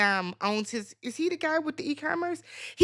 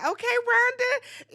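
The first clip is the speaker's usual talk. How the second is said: high, slow, drawn-out teasing okay; mock knowing reply; 11 semitones higher, slower than usual. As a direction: tease her like you know exactly what happened. Mock reply to giddy Rhonda.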